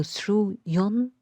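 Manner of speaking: "through yon" drawn out slowly as two beats; iambic scansion. Shown as a demonstration. Teacher showing the third iambic foot, "through yon" in slow scansion. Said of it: "yon in yonder is stressed".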